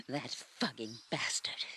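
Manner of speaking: low, soft, seething; hateful curse. Acted. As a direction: spit it out under your breath. Cursing the man who hurt them.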